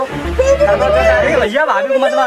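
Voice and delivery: high, drawn-out desperate plea; pleading cry. Acted. Sister cries out to brother not to beat sister-in-law, high and drawn out. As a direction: stretch it out, begging him to stop.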